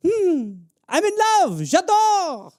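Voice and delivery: high swooning French gush. Acted. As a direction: melt like a lovestruck Frenchman.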